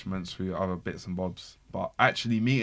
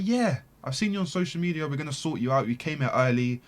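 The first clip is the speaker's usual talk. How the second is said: backstage woman voice; 7 semitones higher, 4 dB louder than usual. Retold or imitated. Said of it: "She was like".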